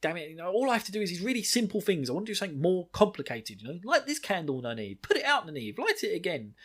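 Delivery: imitating Nynaeve. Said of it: "She's like".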